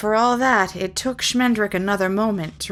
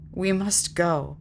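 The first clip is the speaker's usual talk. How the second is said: cold; slower than usual. Acted. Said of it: "Schmendrick said coldly".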